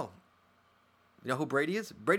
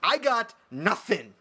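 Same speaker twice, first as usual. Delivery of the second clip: exasperated; 5 semitones higher, slower than usual. Real, not acted. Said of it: "frustrated about joke flopping".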